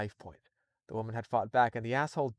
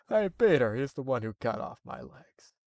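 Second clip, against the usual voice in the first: Joe voice. Retold or imitated. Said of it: "do a Joe voice for the cop".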